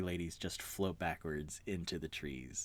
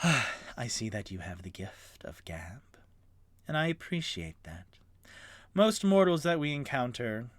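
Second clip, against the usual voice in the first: whispery fey seductress. Acted. Fey Reagan's seductive speech.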